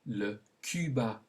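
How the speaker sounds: "le Cuba" with French u, ku-ba; French pronunciation. Shown as a demonstration. Teacher gives learners a country to repeat, French pronunciation. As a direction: model "le Cuba" the French way, no English y-glide. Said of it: "Say it".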